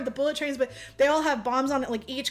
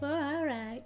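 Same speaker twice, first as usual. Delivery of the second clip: mock deflated reply; 7 dB quieter, slower than usual. Girl's deflated reply in retelling.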